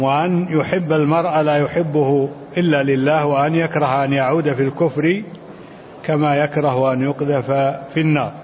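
measured classical Arabic text reading; deliberate recitation of a commentary, phrase by phrase; formal read-aloud. Acted. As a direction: read the scholarly text out evenly. Continues reading the hadith.

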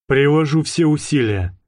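calm, unbothered reply; phlegmatic. Acted. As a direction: say it coolly, no fuss. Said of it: "флегматично ответил Белов". (флегматично)

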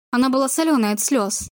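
ordinary delivery, nothing marked

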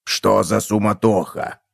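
slow, low puzzled voice; bewildered cockroach. A narrator's reading. Cockroach wondering about the bustle, slow and bewildered. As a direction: draw out the question, baffled. Cockroach figure continues asking.

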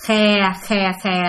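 drawn-out "khè" snake call; imitated snake hiss. Storyteller demonstrates the strange noise, imitated snake hiss. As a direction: mimic the snake's repeated hissing. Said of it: "mà cái tiếng này vậy nè".

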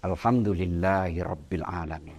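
devout, sincere Alhamdulillah; said properly with feeling. Shown as a demonstration. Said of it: "kita ucapkan dengan baik sambil usap dada".

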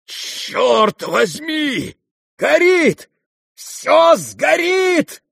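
very high, loud, drawn-out alarm cry; panicked shout. Acted. The fist-fighter, seeing the fire, shrieking in panic. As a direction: scream in panic at the flames. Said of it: "вскричал он, увидев пламя".

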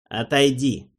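cold, firm order; icy command. Acted. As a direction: dismiss him coldly. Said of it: "приказал ледяной голос".

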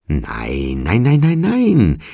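high, loud, ecstatic cry of denial; rapid repeats rising to an elated squeal; delighted shriek. A narrator's reading. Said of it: "schrie Mac entzückt".

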